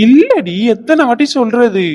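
exasperated. Real, not acted. Nurse snapping at the sister asking again, exasperated. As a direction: snap back, fed up with repeating. Asked the same question again.

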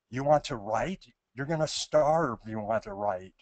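imitating a Brooklyn Jewish mother's accent; light Brooklyn Jewish accent, scolding. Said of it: "quotes her mother in a, a Brooklyn Jewish accent".

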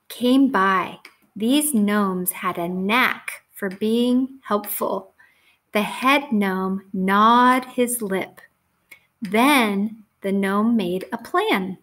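slow, deliberate storybook reading with weighted words; story read to children. A narrator's reading. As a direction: read it slowly to young children, landing each key word.

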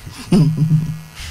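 short, low run of chuckles; real chuckle. Real, not acted. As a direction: let out a low laugh. Laugh amid dispute over car year.

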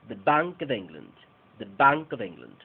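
"The Bank of England" with BANK loud and reduced the, of; stress on BANK. Shown as a demonstration. Teacher closing the example with the full phrase. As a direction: punch BANK, swallow the rest. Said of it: "Otro ejemplo".

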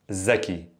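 "zaki" opening on a buzzing z; dialect pronunciation. Shown as a demonstration. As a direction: Levantine "zaki", z in place of th. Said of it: "we could say dhaki or zaki".

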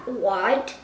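ordinary delivery

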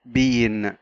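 bean with the E drawn out; stretched E in bean. Shown as a demonstration. Teacher demonstrating two vowels together, bean with a stretched E. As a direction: hold the long E in bean. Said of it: "مطينا نطق ال E فبقت بين".

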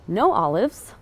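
"No" punched loud to correct; stress on No. Acted. Customer correcting the waiter's order, stress on "No".

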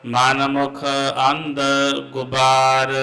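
measured chant of Gurbani; santhya recitation. Real, not acted. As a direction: recite slowly, line by line. (ਗੁਰਬਾਣੀ ਦਾ ਸੰਥਿਆ ਪਾਠ)

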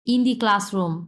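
slow demo reading. Shown as a demonstration. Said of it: "আমি একটু ফিনিংটা লিখি".

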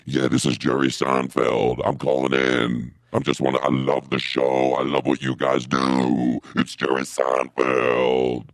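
Jerry Seinfeld voice. Acted. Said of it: "not talking that weird voice".

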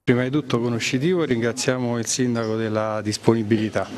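winded, short of breath. Real, not acted. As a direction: talk while still catching your breath. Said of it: "scusate il fiatone".

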